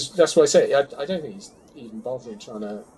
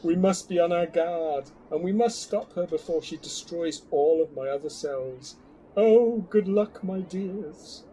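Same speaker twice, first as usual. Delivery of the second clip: dramatic reading; 5 semitones higher, 4 dB louder than usual. Pretend. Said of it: "Dramatic reading from Ian now".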